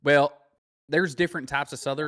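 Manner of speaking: Southern accent on request, slipping toward Australian; Casey. Shown as a demonstration. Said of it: "let's hear your Casey accent".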